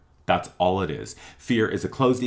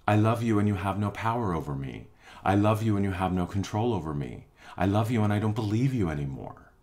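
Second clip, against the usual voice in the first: calm, firm love. Acted. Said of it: "breathe a sigh of relief and say".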